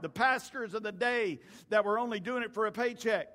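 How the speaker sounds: animated sermon storytelling, punching key words; preaching. Acted. Preacher telling a congregation about Jesus coming down, emphatic preaching.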